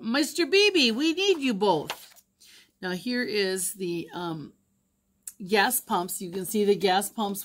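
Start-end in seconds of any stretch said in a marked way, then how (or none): 0.0-2.1 calling out. A narrator's reading. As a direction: call out to them from the boat. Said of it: "The driver called out".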